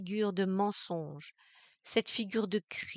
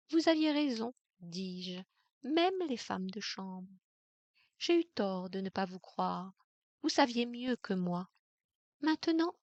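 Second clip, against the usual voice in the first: icy calm; 3 semitones higher than usual. Acted. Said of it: "je devais sembler incroyablement calme".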